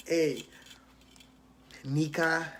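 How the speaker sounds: loud call across the room; loud friendly call. Real, not acted. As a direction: shout her name to get her attention. Calling out to interviewer.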